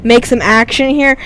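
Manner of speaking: rally them like a captain on the bike; retold yelling. Rider urging the pack to chase, a retold half-shout. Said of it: "I'm, like, yelling to these guys".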